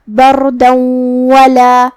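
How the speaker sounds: بردن merged into ولا with a nasal hum; idgham with ghunna. Shown as a demonstration. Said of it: "تنوین کو واو میں ملا کے غنہ اور تشدید کے ساتھ". (بردن کو ولا میں غنہ کے ساتھ ملا کر)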